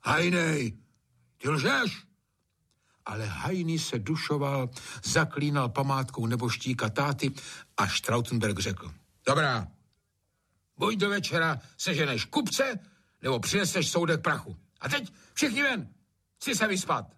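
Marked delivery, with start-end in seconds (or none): 0.0-2.0 shudder, then a high accusation; disgusted then accusing. Acted. Trautenberg disgusted, accusing Hajný of lying. 9.3-17.1 high, firm commands; stern ultimatum. Acted. Trautenberg ordering everyone out to sleep.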